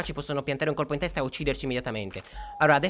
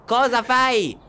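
loud, raised-pitch telling-off; exasperated scolding; 5 semitones higher, 3 dB louder than usual. Real, not acted. Rimprovera il nonno addormentato. (rimprovero esasperato, sempre più forte)

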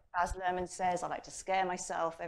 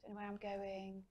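fading, softer muttered worries; anxious self-talk growing softer; anxious inner voice; 6 dB quieter than usual. Retold or imitated. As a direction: let the anxious inner voice fade away as it frets. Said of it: "the internal dialogue that says".

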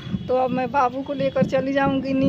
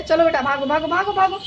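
pet talk; 4 semitones higher than usual. Real, not acted. Shooing dog downstairs.

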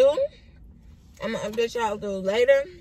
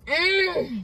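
exaggerated moan; 7 semitones higher than usual. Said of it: "eating like that".

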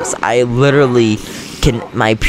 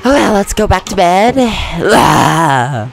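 high playful voice; 9 semitones higher, 4 dB louder, much slower than usual. Acted. Bright high put-on voice.

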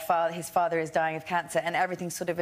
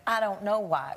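put-on Southern US accent. Retelling the puzzled Uber driver's answer, imitated Southern accent. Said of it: "doing the accent of the play".

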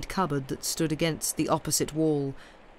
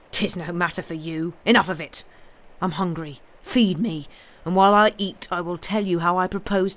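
lightly voiced, commanding blackmailer; menacing intruder. Intruder dictating terms to Jarvie, mildly menacing. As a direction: press the demands with bitter force. Intruder demands food and money.

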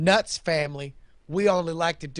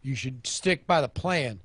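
hayseed nut farmer. Acted. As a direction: brag about the nuts like a country farmer. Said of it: "Johnny Nuts Nut Farm".

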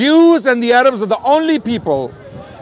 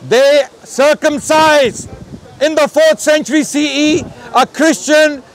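higher, emphatic public declaiming; emphatic yelling; 3 semitones higher than usual. Real, not acted. Debater declaiming to the camera and crowd, emphatic yelling. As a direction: raise your voice to hammer it home. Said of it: "Don't yell".

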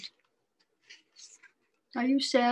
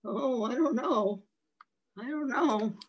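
nervous. Shown as a demonstration. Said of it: "this fish is nervous".

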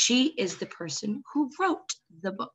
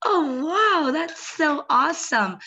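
mock surprise; 6 semitones higher, 4 dB louder, slower than usual. Reacts to imagined child answer.

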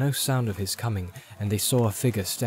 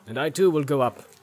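lightly voiced king, louder and higher; determined king; 5 semitones higher, 5 dB louder than usual. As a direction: lift and strengthen the voice as a resolute king.

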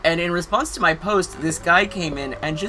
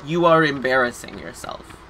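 no inflection. Retold or imitated. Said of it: "with no inflection".

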